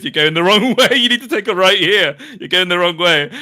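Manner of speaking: bleeding captain yells at his partner she's going the wrong way; urgent telling-off. Retold or imitated. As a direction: bark directions at a bad driver. Wounded captain correcting driver.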